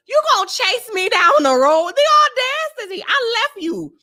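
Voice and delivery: loud, high, scandalized protest; hammed-up outrage, rising in pitch; indignant outburst. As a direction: call out the sheer nerve of it. Indignant at being chased down road.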